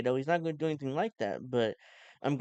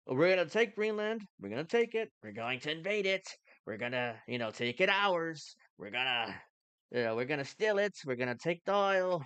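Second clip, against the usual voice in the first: Trump impression. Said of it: "I'm sounding more and more like Trump now".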